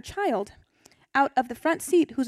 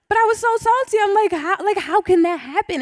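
much higher and louder, laughing at herself; 8 semitones higher, 4 dB louder than usual. Real, not acted. Telling the group about her teenage anger, laughing.

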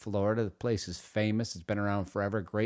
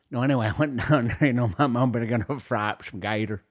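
Louisiana accent; 7 dB louder, faster than usual. Shown as a demonstration. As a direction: run the words together in mock Louisiana speech. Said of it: "You just go like this".

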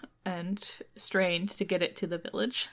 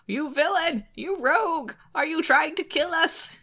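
higher, louder outraged shriek; indignant cry; 8 semitones higher, 4 dB louder than usual. A narrator's reading. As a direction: cry out at the villain. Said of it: "cried Old Lady Skinflint".

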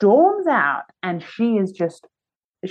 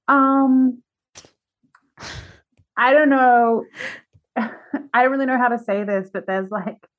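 awkward hesitation; 4 semitones higher than usual. Retold or imitated. Venue staffer warning the performers, awkwardly hesitant. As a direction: stall before delivering bad news.

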